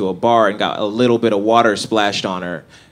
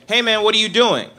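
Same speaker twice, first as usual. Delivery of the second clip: casual, relaxed phone greeting, pitched up; black-friends voice; 8 semitones higher than usual. Retold or imitated. On the phone to his black friends, relaxed casual greeting. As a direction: toss it off easy like to an old buddy. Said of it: "when I talk to my black friends".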